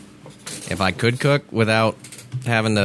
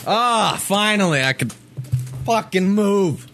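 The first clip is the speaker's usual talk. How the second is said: relieved; 10 semitones higher, slower than usual. Real, not acted. Relief after removing head stack.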